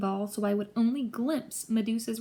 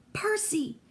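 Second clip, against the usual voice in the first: calling out; 10 semitones higher than usual. A narrator's reading. Friend calls out from above.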